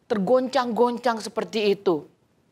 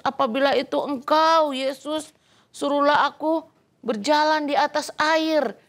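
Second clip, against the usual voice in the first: Peter asking; 4 semitones higher than usual. Acted. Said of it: "Nah, ini Petrus".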